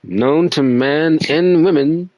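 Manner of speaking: lightly posh English detective, self-assured. Acted. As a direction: announce it like a smug English sleuth. Holds detective voice reading dialogue.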